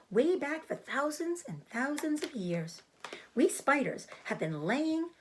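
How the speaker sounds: a small spider explaining herself calmly; Charlotte the spider. Acted. Charlotte explains her diet.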